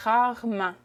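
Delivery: rarement as rar-ment, second re dropped; casual pronunciation. Shown as a demonstration. Teacher repeats the casual Quebec way, two-beat rarement. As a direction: say rarement in two joined beats. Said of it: "if I was saying it casually".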